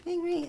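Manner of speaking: squeaky high phone ring imitation. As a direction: chirp it up like a phone. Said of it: "I'm gonna call".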